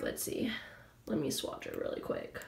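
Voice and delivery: whispering to herself while swatching; breathy whisper, almost under the breath; a quick private whisper to the camera; whispered aside. Real, not acted.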